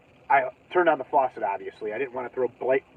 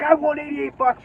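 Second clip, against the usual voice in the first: higher, eager and proud; proud announcement; 10 semitones higher than usual. Retold or imitated. Handing the ticket to the clerk, higher eager announcement. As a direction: tell her with glee. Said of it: "I'm like".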